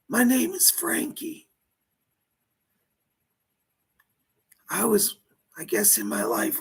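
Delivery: dead mobster speaking through a medium; seance medium. Pretend. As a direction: channel a lost spirit, pleading.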